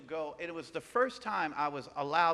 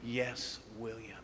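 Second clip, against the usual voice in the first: meek reply; 7 semitones lower, 5 dB quieter, slower than usual. Retold or imitated. Meek answer to boss.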